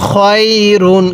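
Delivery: drawn-out "খয়রুন" with a distinct final n; clear tanween. Shown as a demonstration. Teacher drilling tanween for learners, "খয়রুন" stretched and clear. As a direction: lengthen "খয়রুন" evenly, sound the n. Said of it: "কিভাবে শিখব?".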